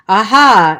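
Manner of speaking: loud party whoop; yell. Acted. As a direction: whoop from the next room. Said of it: "someone yelled".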